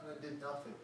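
soft breathy whisper. Acted. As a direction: promise it under your breath. Healed man's humble answer.

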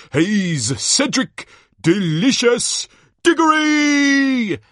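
booming showman, stretching the big names; hammed-up ringside introduction; excited tournament announcer. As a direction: whip up the crowd, building to a loud high cry. Announcer introduces next champion.

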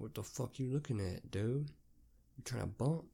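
softly voiced challenge under the breath; mock hushed confrontation. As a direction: act out a discreet threat, not fully whispered. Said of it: "you just gotta whisper it to that person".

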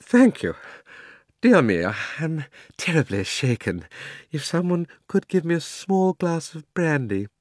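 put-on faint, high, quavering old gentleman; halting and feeble, pausing for breath; Uncle Andrew. A narrator's reading. Shaken old gentleman begging for brandy, faint and halting. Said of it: "in a faint voice".

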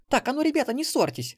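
put-on high, loud child's cry; wailing girl. A narrator's reading. Granddaughter shouts at the quarreling pair, high and loud. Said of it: "завопила внучка".

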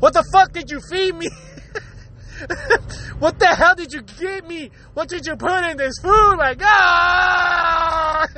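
hammed-up accusation, ending in a drawn-out cry; mock blaming outburst. Sick guest blaming the host's food, mock outrage. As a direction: blame the cook, building to a wailed finish. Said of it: "now you start blaming the food".

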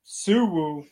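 high, loud silly squeal; cutesy squeal. Pretend. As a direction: squeal it cutely. Silly coined word.

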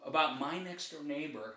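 hushed, confidential aside; whispering. Real, not acted. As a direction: say it softly, as if someone might overhear. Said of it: "I love how you're like, whispering".

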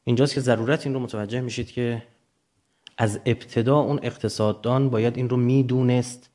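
usual speaking voice

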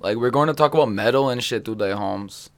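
a lightly put-on Cholo streamer voice; bad Cholo accent. Intro of Desk Metal in a mild Cholo accent. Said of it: "That wasn't very good".

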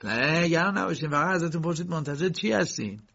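calm him down in a lifted voice; reassuring. A narrator's reading. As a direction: reassure a flustered man. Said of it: "برای آرامتر کردن مرد گفت".

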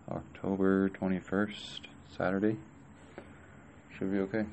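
talking around a cigarette; words past a lit cigarette; cigarette in mouth. Real, not acted. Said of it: "let me light a cigarette here".

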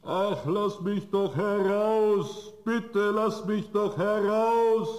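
slow, pitiful begging to be let out; plaintive plea. Acted. Ghost trapped in the bottle begs the student, slow pitiful plea. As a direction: plead miserably and slowly. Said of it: "rief ganz kläglich".

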